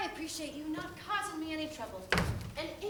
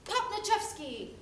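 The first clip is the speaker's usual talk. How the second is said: demo yell; 4 semitones higher than usual. Shown as a demonstration. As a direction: show how to call for the rescuer. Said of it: "yell at the top of your lungs".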